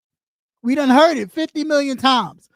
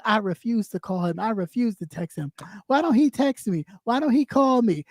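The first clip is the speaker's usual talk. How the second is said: mock jilted girlfriend; 4 semitones lower than usual. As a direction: pout it like a spurned girlfriend. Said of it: "like a little girl that broke up".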